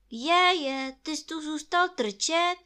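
high, loud astonished rabbit; surprised question. Acted. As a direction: exclaim at finding someone stuck. Rabbit finds Pooh stuck in hole.

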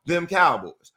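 slow, loud smug taunt; drawn-out mocking taunt; mock fan taunt. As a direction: tease like a gloating fan. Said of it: "Let's answer".

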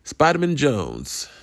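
joking superhero introduction. Acted. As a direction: introduce yourself as a silly hero with a surname-like name. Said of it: "Jewish superhero".

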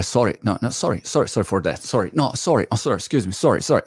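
lightly mimicked, repeated polite sorries; over-apologetic English speaker. Imitating the English who apologise all day, over-apologetic. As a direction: rattle off mock English apologies. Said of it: "gli inglesi qua è tutto sempre".

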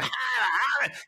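high, hollered "haha" noise; imitated thunder crash. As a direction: spell out the storm with a high vocal burst. Imitates thunder and lightning on mountain.

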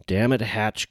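tense, held-back anger; a hint of tight irritation at Hatch; tight reproach. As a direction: scold him through held anger. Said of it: "Garvin said tightly".

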